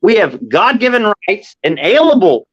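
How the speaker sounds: talking with loose false teeth; words slurred by fake teeth; loose dentures. Real, not acted. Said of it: "my teeth are fake, so some words are a little weird to pronounce".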